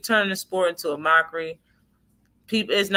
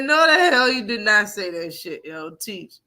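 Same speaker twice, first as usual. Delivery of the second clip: mock disbelief; 2 semitones higher than usual. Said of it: "I said".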